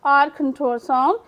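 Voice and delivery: slowly spelled out for the class; slow teaching read. Shown as a demonstration. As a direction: say it slowly, word by word. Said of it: "आर control sound की तरह पढ़ रहे हैं". (धीरे धीरे समझाते हुए)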